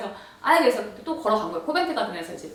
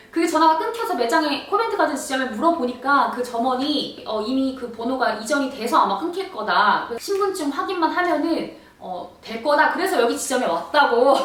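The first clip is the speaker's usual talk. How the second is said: louder, higher reenacted rant at the clerk; retold complaint; 3 semitones higher, 4 dB louder than usual. Complaining to the store clerk, heated. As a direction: replay the rant, fed up. Quoting her own angry complaint.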